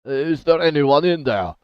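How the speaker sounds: loud call from outside; calling through a wall. Acted. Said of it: "a voice calls in".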